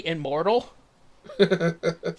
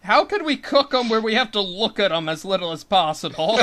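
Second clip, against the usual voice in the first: raised, puzzled planner voice; voicing the first cooks; 3 semitones higher, 5 dB louder than usual. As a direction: act out the baffled first cooks. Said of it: "It's like".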